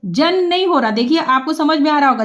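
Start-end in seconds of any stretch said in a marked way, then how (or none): 0.0-0.9 नहीं hit firmly; stress on नहीं. Shown as a demonstration. Teacher correcting pupils, stressing नहीं. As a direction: lean on नहीं. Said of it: "जन नहीं बोलना".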